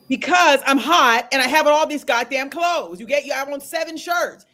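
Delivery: high, slow, exasperated retort; irritated outburst. Retold or imitated. Client overloaded with clothes answering counselor, irritated outburst. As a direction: act out a fed-up answer, loud at first. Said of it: "the more irritated I got".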